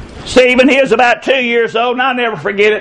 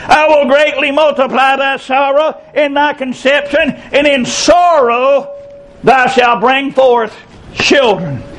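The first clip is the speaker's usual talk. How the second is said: slow scripture reading. Retold or imitated. Preacher reading Genesis aloud, slow and solemn. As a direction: read it slowly, let it sink. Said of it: "Genesis three sixteen says".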